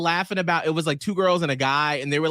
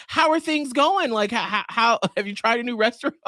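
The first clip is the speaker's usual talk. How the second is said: chatty friendly instructor; 7 semitones higher than usual. Retold or imitated. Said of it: "he'll be like".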